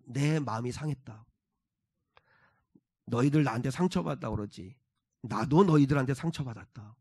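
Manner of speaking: low, soft wounded confession; hurt feelings. Acted. God telling his people he is wounded, low and hurt. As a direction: let the hurt out quietly, with restraint. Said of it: "하나님도 마음이 상하신 거예요".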